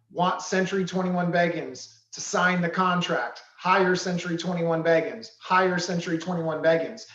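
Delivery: "Hire Century twenty-one Beggins" with falling emphasis; solid inflection. Shown as a demonstration. Co-trainer drilling phrases for the client's subconscious, solid inflection. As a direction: land each phrase firmly, falling at the end. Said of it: "putting some solid inflection".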